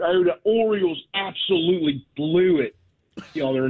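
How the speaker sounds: quick Baltimore accent demo, with the O sounds hit hard. Shown as a demonstration. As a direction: drop into a Baltimore accent and lean on every O. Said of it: "you gotta hit the O real hard".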